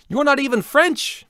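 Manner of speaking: put-on loud, high, terrible French accent; mock French accent, way up high; bad French accent. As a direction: ham up a fake French accent. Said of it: "That's a terrible accent".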